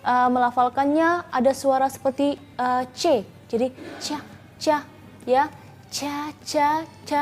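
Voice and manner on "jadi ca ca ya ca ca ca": "ca" said in place of "ta"; wrong ca. Shown as a demonstration. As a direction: show the mistaken "ca". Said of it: "itu bukan huruf ta".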